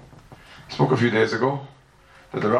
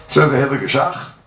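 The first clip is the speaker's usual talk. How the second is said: dramatic announcement; 7 dB louder than usual. Real, not acted. Rabbi dramatically introduces the Shach.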